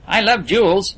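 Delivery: lightly voiced eager boy; enthusiastic. A narrator's reading. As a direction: gush about the jewels. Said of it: "agreed Percy enthusiastically".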